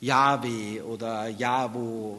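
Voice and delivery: "Yahweh oder Jahwo" said slowly in two syllables each; probable pronunciation. Shown as a demonstration. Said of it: "Wahrscheinlich war es".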